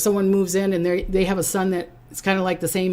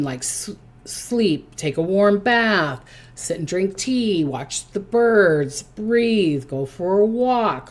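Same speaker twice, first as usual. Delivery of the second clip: slow calm listing; slow down, savor each word; soothing; slower than usual. Acted. To stressed Cancers, slow soothing suggestions. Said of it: "soothing routine".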